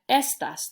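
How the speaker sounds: EStas, E punched, ending light; stress on first syllable. Shown as a demonstration. Teacher isolates the word for "these", stressing the E of estas. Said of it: "the E gets the punch".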